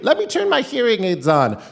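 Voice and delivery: put-on high, loud old-lady holler; hard-of-hearing grandma. Grandma to grandson on the phone, high loud holler. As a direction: shout like a deaf grandmother. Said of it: "this is how she talked".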